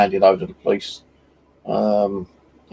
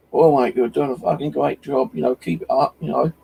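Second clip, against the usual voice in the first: higher, hearty bloke voice; passerby praise; 5 semitones higher than usual. Retold or imitated. Passerby praises the magnet fisher, higher and hearty. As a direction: play the cheery passerby, pitched up.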